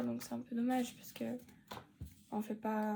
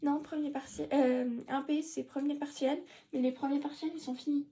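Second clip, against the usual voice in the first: imitating the teacher; 4 semitones higher than usual. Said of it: "Là, il dit, ouais".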